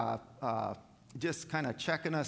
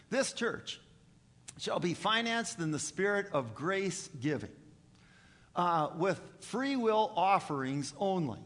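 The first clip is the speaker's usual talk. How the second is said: deliberate, emphatic reading in a raised pitch; formal reading aloud; 3 semitones higher than usual. Acted. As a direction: read it out firmly, item by item. Reads church constitution aloud.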